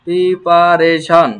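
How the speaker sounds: প্রিপারেশন said slowly and firmly as pri-pa-re-shon; careful model word. Shown as a demonstration. Teacher to students, careful pronunciation drill. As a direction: model প্রিপারেশন with each syllable clear. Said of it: "teacher models pronunciation".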